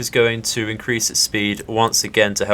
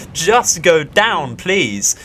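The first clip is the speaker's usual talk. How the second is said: pleading; 5 semitones higher, much slower than usual. Real, not acted. Begging the ship to sink.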